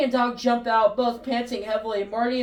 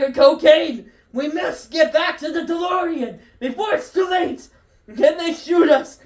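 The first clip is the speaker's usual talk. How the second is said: panicked shouting; 5 semitones higher, 4 dB louder than usual. Acted. Doc panicking, fleeing the FBI.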